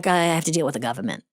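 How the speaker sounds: quick Boston accent, R dropped. Shown as a demonstration. Actress giving an example, Boston accent. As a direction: toss it off in casual Boston. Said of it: "you get rid of the R".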